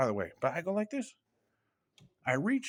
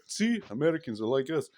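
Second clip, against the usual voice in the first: a light Middle Eastern accent on a retold ghost voice; quoting the ghost in a mild Middle Eastern accent; 2 semitones lower than usual. Man retells the ghost in the bathroom, mild Middle Eastern accent. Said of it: "He had a thick Middle Eastern accent".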